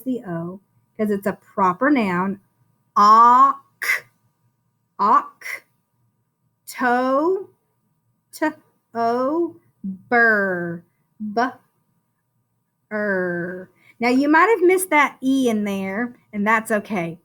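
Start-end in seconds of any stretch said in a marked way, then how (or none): 3.0-13.7 "Oc-" "to-" "ber" sounded apart, slowly; syllable by syllable. Shown as a demonstration. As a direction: break October into parts. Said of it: "Sound out the first syllable".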